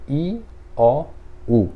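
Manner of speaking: "I, O, U" as separate sounds; O in the middle. Shown as a demonstration. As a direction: spell out "I, O, U" with pauses between. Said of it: "como se tivesse um O aqui no meio".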